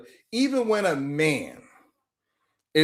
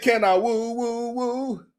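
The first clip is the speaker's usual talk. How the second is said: playful woo; 3 semitones higher than usual. Retold or imitated. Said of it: "I said".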